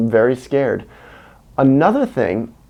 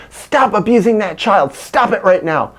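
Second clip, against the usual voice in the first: retold shout; 8 semitones higher than usual. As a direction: order her to stop, raised and sharp. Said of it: "And I said".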